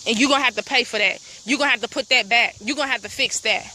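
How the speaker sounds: fast, firm warning; warning them. Pretend. Alerting everyone to the pipeline crew, fast and firm. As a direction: rattle off the demands to the crew. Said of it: "to alert everybody to say".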